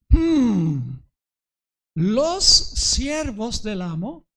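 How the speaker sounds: usual speaking voice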